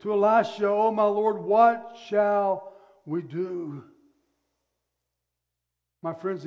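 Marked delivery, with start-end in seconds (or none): 0.7-3.8 mild panic. Acted. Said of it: "in panic, he cried".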